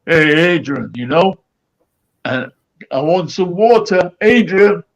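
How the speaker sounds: loud call across the ward; calling the male nurse from bed. Retold or imitated. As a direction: shout the name out into the night. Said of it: "It sounds a bit rough".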